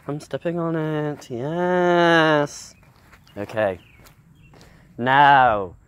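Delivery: hushed, admiring nature-documentary narration; lightly hammed wildlife presenter; nature show host. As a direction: marvel at every tree like a TV naturalist.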